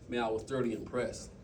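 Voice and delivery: lightly voiced older mentor; imitating Doctor Scott. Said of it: "after he's like".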